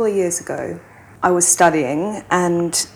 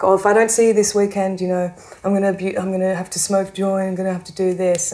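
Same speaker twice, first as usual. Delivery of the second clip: put-on guilt-tripping boyfriend; 2 semitones higher, much faster than usual. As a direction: rush the guilt trip at her.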